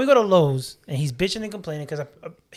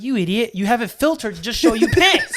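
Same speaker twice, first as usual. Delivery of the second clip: laughing scold; 5 semitones higher, 7 dB louder than usual. Retold or imitated. Retelling scolding dad over phone.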